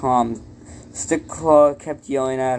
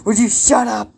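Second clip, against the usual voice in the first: real exasperation; 9 semitones higher, 4 dB louder than usual. Real, not acted. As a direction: raise the pitch sharply to silence an interrupter. Interrupted reader snaps at companion.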